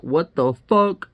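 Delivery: bewildered reaction. Retold or imitated. Voicing her reaction to the hobo.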